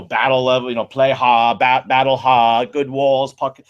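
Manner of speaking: put-on botched Boston accent that slips toward British; half-British take on a Boston accent; attempted Boston accent. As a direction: imitate a coach in a wobbly Boston accent. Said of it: "like, a British accent".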